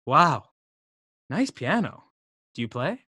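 breathy, impressed wonder; awed sigh. Acted. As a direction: sigh it out in awe. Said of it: "more in awe of how much money I have".

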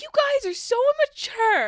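high, loud scolding; exasperated teacher. Retold or imitated. Teacher retelling her telling-off of four-year-olds, high exasperation. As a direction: cry out in exasperation at the class. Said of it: "I was like".

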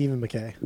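The name firmly ending in "ay" as in day; the name as mac-KAY. Shown as a demonstration. Fan settling the name, the name firmly said muh-KAY. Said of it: "so it's definitely".

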